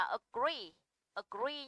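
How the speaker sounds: weak opening a, long stressed ee in agree; stress on second syllable. Shown as a demonstration. Teacher models agree for students, stress on second syllable. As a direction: agree with the weight on GREE. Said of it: "trọng âm sẽ rơi vào âm".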